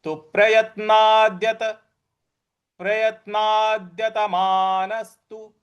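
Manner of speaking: प्रयत्नाद्यत with the द pressed; प्रयत्नाद्यत मानस्तु, द and स struck; stress on द. Shown as a demonstration. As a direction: lean on द after ना. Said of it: "ना के बाद जो द है उस पर भी हमको आघात देना है".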